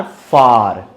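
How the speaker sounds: फार with the आ drawn out long. Shown as a demonstration. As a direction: stretch the आ in फार. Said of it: "आ खींच के आता है".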